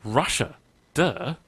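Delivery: deadpan retold child stating the obvious; deadpan duh. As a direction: say it as if it's obvious. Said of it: "dead straight face".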